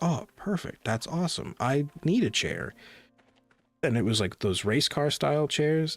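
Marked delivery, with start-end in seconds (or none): 0.0-2.7 naive excitement. Retold or imitated. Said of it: "And I was like".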